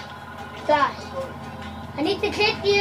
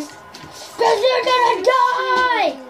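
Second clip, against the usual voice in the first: hugely stretched-out game threat; hammed-up slow villain cry; mock threat; 3 semitones higher, much slower than usual. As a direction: drag out the final word in playful menace.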